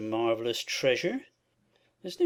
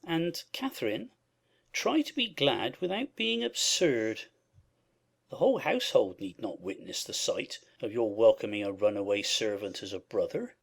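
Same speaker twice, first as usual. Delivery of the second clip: cold rebuke; 10 semitones lower than usual. Acted. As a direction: reprove her stiffly. Husband rebukes wife.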